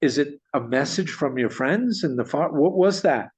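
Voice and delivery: retold astonishment. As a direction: act out a parrot owner's bewildered disbelief. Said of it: "He's in total astonishment".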